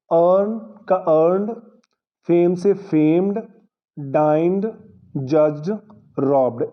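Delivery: teacher modelling the d ending of ईडी, word by word. Shown as a demonstration. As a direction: pause after each word like a model list. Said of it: "ईडी ड की ही आवाज़ दे रहा है".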